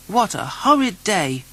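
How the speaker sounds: sulky little complaint; grumpy Noddy. Acted. Noddy grumbles in his car on a rainy day, high and grumpy. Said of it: "said Noddy grumpily".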